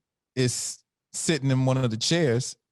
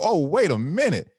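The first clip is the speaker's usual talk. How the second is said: very high, slowed thrilled reaction; excited disbelief; 14 semitones higher than usual. Retold or imitated. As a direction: gush like a starstruck fan. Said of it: "I'm like".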